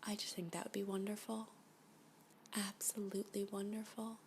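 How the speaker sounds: soft, lovestruck whisper; dreamy whisper. Acted. Captive daydreams aloud to her alien abductor, softly whispering. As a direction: melt into the words, barely voiced.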